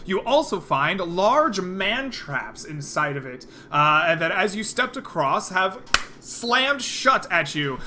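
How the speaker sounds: measured, dramatic scene setting; game master narration. Acted. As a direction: narrate the danger, leaning on key words.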